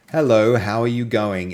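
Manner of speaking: a light Australian accent on a greeting; casual Australian hello; Aussie accent. Shown as a demonstration. Testing text-to-speech with a light Australian accent. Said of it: "in Aussie".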